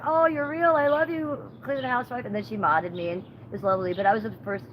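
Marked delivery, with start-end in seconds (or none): 0.0-2.2 gushing fan. Retold or imitated. Streamer gushes over her visit in a higher voice. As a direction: squeal it like you just met a celebrity. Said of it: "And she was like".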